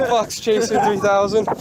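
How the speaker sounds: repeating the name through a laugh. Real, not acted. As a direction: chuckle through the words.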